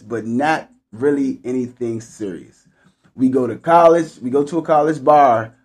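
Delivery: measured, clearly phrased read-aloud; story read aloud. A narrator's reading. Host reads a listener's one night stand story, read-aloud voice.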